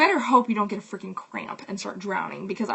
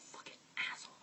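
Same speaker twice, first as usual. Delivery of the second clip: muttered curse; 18 dB quieter, much faster than usual. Retold or imitated. Muttered insult after the rant.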